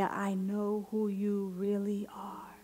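slow breathy whisper. Acted. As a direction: whisper it like a secret truth. Intimate declaration within prayer.

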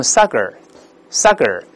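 saga misread as sagar, tongue curled at the end; wrong r-coloured ending. Shown as a demonstration. Teacher shows a common mistake, sagar with curled r. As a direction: say sagar with an r tacked on. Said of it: "容易把这词读成sagar".

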